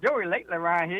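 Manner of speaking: normal talking voice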